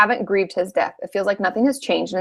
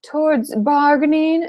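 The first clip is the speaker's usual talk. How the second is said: high, slowed mock-naive voice; sing-song mockery, much higher, drawn out; 6 semitones higher than usual. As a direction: parody a too-neat idea of grief. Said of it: "And no, that's bullshit".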